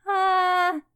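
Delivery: short high sung-out "ah"; imitating a tentative first sound, pitched high; small "ah". Client invited by healer to make a sound, small held "ah". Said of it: "So something small comes out".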